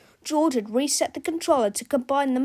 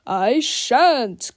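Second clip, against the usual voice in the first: cried out; 7 dB louder than usual. A narrator's reading. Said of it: "cried Captain Underpants".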